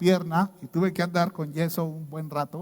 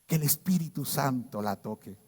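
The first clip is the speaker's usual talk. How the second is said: a softer, hushed mock solemn request; 4 semitones lower, 6 dB quieter than usual. The church leader tells the guest what to pray for, hushed mock solemnity. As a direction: hush it like a pious church leader. Woman states the prayer topic.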